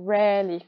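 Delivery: "rarely" with an open eh for the A; A pronounced eh. Shown as a demonstration. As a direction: say "rarely" as REH-lee. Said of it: "le A va se prononcer eh".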